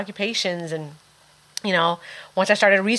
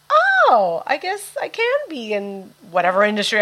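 realizing oh; 3 semitones higher than usual. Retold or imitated. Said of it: "So I was like".

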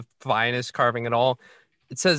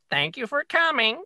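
high squawky parrot voice; 11 semitones higher than usual. Acted. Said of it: "the parrot's like".

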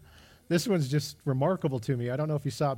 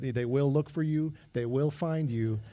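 Liam Neeson threat; slower than usual. Retold or imitated. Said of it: "Liam Neeson in the movie Taken".

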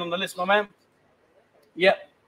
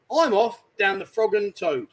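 slow hinting; slower than usual. Shown as a demonstration. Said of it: "let's use a bit of common sense".

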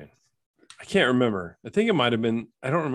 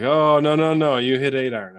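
a hammed-up mixed Caribbean accent, higher and louder; mock Caribbean caddy; 4 semitones higher, 6 dB louder than usual. Caddy insisting to the golfer, in a louder, higher mock Caribbean accent. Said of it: "what kinda accent is that".

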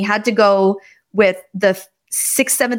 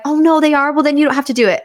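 higher-pitched motherly dismay, retold; mock-coddling mom, pitched up; protective sympathy; 6 semitones higher, faster than usual. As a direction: rush to rescue the upset child. Mother's first protective thought, acted.

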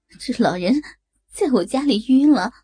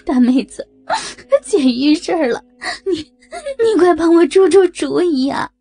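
loud, higher tearful plea for help; crying on the phone; 7 semitones higher, 4 dB louder than usual. Acted. Woman crying to her friend on the phone for help. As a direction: sob out a call for help. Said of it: "张凯丽哭着说道".

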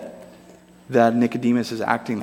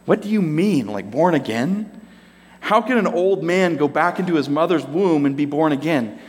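raised pitch, incredulous literal questioning; baffled Nicodemus; 4 semitones higher than usual. Acted. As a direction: play him as puzzled and taking it literally. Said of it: "just listen to, um, Nicodemus' response".

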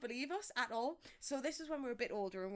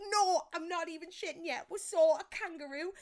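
put-on insistent kids; 7 semitones higher, 6 dB louder than usual.

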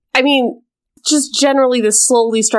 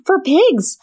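exasperated protest; 6 semitones higher than usual. Retold or imitated. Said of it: "And I'm like".

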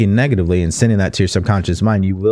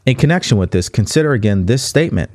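measured, deliberate read from a book; book reading aloud. Acted. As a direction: read the passage out clearly for listeners.

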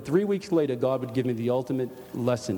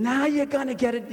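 pitched-up mock taunt; retold scream; 11 semitones higher than usual. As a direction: imitate a woman shrieking a taunt. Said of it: "this lady is screaming".

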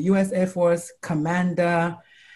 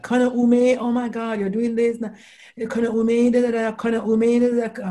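1 higher admiring trainees; 5 semitones higher than usual. Retold or imitated. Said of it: "they're like".

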